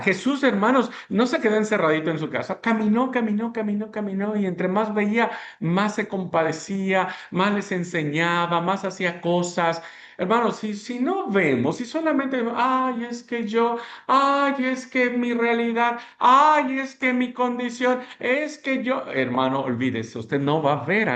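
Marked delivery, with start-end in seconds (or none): 0.0-7.5 rising preacher's fervor, pitched up; fervent preaching. Acted. Preaching at full force. 12.6-19.0 mock whining, pitched up and slow; sing-song complaining mimicry; whiny excuse voice. Mocking self-pitying excuses.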